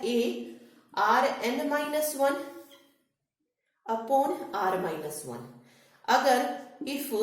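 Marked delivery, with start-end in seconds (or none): 0.0-5.4 slow dictation. Shown as a demonstration. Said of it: "सम का formula लगता है वो क्या बनता है".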